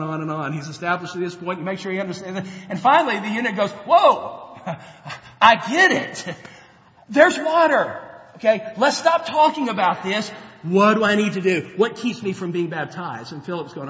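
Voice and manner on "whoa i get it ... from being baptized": impatient, can't wait any longer; excited realisation. Retold or imitated. Eunuch interrupting Philip, excited and laughing.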